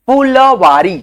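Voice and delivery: फुलवारी as "phoo-la-waari", extra "a" after the l; syllable-split demo. Shown as a demonstration. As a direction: say फुलवारी slowly, sounding "la" as its own syllable. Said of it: "फुलवारी नहीं होता". (फुलवारी में 'ल' पूरा बोलकर, फू-ल-वारी)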